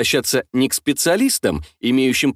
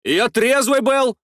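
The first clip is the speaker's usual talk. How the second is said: indignant protest; 10 semitones higher, slower than usual. A narrator's reading. Driver protests.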